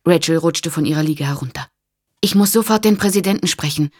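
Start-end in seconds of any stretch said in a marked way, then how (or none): 2.2-3.9 urgent request. Acted.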